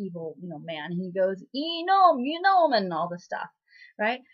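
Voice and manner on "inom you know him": raised, louder imitation of an outburst; mock freak-out. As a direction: freak out in a garbled high yelp. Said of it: "like, freaks out".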